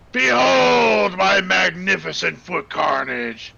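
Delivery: slow, grand, boastful proclamation; pompous vain hero. Acted. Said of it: "He's got a posh British accent".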